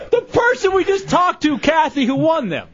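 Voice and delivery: high-pitched, laughing exasperation. Real, not acted. Host reminding staffer about the caller, laughing as he talks. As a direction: talk through helpless laughter.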